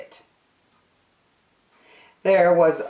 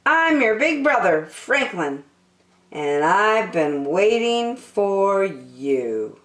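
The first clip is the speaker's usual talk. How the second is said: tender big brother; 4 semitones higher than usual. Acted. Franklin tender.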